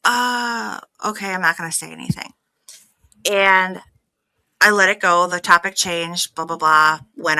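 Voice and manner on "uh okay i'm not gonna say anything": holding tongue. Retold or imitated. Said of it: "you could see me in that video go".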